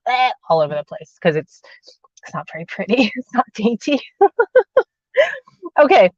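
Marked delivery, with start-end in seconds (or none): 0.1-0.3 a short imitated cough grunt; mock cough. Showing viewers the cough she fears, a quick fake grunt. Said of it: "stop me from going".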